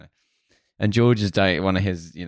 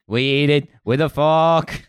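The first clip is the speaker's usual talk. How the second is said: raised, drawn-out mock certainty; perfect confidence; 5 semitones higher, slower than usual. George to the board about his Snickers, perfectly confident. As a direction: declare it slowly, building higher with total assurance. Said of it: "perfect confidence".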